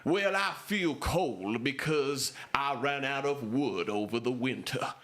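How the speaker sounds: slow, lightly Southern drawl; a hint of a Southern farmer grumbling, slow; Southern accent. Diner patron complaining about the cold winter, slow light Southern accent.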